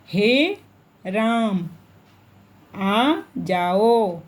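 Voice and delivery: slow call with each vowel held long; drawn-out call. Shown as a demonstration. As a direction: call "हे राम, आ जाओ" as if to someone far away, stretching the vowels. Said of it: "प्राय पुकारने, जोर से गाने".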